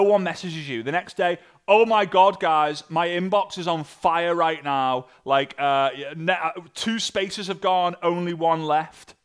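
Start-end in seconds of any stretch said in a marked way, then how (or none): 1.7-9.1 hammed-up gushing, louder on the opening; playing a fake boastful recruiter; mock hype. Mocking a recruiter bragging to followers, hammed-up excitement. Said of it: "It's on fire that you've only".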